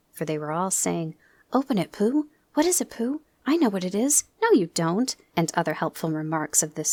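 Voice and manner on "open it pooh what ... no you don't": excited. Acted. Everyone urges Pooh.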